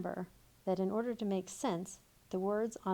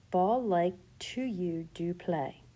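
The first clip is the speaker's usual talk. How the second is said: slow scrambled words; 5 dB louder, slower than usual. Shown as a demonstration. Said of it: "We need to reorder that".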